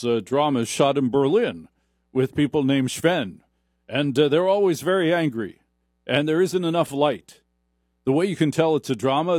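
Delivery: usual speaking voice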